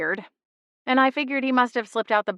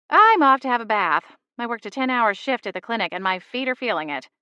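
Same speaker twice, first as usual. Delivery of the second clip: mom voice; 4 semitones higher, 4 dB louder than usual. Acted. Mom tired after shift.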